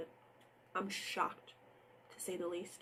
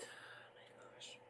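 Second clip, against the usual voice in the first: soft slow breathy oh my gosh; exasperated whisper; 20 dB quieter, slower than usual. Real, not acted. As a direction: sigh it out, drained. Exhausted sigh after recap.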